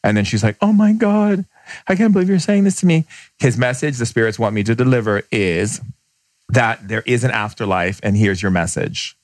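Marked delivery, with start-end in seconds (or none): 0.6-3.1 higher, louder gasp of disbelief; imitating a stunned mother, faster at the end; amazed woman. Woman's shocked reply, retold.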